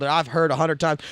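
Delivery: usual speaking voice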